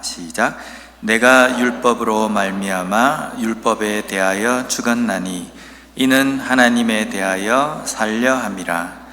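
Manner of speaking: ordinary delivery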